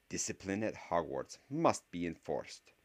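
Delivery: stern professor laying down rules; a stern witch teacher, measured. Acted. Voiced professor character.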